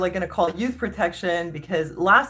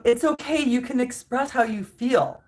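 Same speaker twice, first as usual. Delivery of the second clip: mock condescending comfort; 4 semitones higher than usual. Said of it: "And then she's like".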